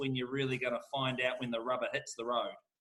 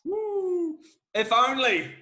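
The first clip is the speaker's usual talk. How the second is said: high, loud woo then a rueful "If only"; excited whoop; 9 semitones higher, 6 dB louder, much slower than usual. Real, not acted. Auctioneer whooping at a seller's hopeful question. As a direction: burst out at the idea of timing it.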